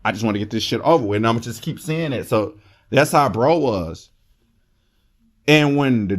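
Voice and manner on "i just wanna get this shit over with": much softer, fast anxious mutter under the breath; nervous inner voice. Retold or imitated. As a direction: rush it quietly like a panicking inner voice. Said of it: "another part of me and my neurotransmitter be like".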